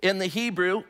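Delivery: normal talking voice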